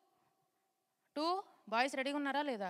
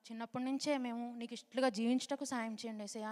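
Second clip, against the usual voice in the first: model prayer. Shown as a demonstration. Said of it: "అని prayer చేసుకోండి".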